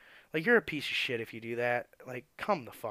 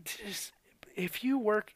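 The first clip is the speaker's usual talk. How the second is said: whispered aside; 8 semitones higher, slower than usual. Real, not acted. Ranting aside, drops voice.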